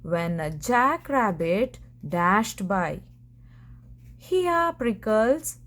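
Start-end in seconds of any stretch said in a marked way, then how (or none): 4.2-5.6 shouted. Acted. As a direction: holler a cheeky greeting on the run. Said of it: "she shouted".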